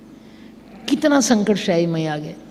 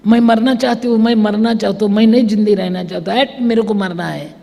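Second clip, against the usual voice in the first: raised, pleading cry of wanting to die; half-shouted despair, louder than her telling; retold crying out; 3 dB louder than usual. Widow alone at the cremation ground, crying out in despair. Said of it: "मैं जोर जोर से चिल्लाती".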